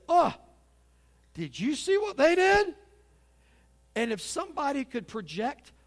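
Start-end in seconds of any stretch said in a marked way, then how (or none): 0.1-2.7 high, loud gasp of mock shock at the neighbours; gossiping busybody. Preacher mocking a churchgoer who gossips, in a loud, high, shocked voice. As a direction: play a scandalised gossip pointing at someone else's sin. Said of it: "look at other people's sin and say".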